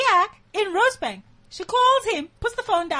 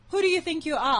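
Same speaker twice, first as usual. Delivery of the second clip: mock angry husband; 4 semitones higher, faster than usual. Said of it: "he calls me and says".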